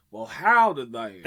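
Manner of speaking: playful twangy cowboy American drawn from a howdy; jokey attempt at an American accent; mock American accent. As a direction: put on a hokey American accent. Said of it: "No American accents".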